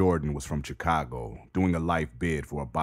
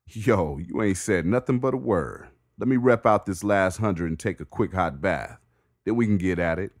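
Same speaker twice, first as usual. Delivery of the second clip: calling back; 5 semitones higher, 5 dB louder than usual. Acted. Bricks replying across cells.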